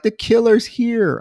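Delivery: high-pitched, badly faked French accent; attempted French accent. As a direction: try a French accent and miss it. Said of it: "I can't do her French accent".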